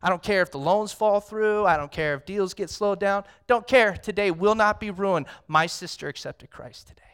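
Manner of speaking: loud, jubilant declaration; elated. Retold or imitated. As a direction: announce it to the office with joy. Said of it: "I'm like".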